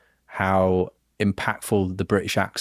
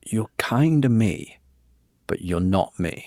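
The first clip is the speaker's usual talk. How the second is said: awed whisper. Retold or imitated. Imagined meeting with a half-brother.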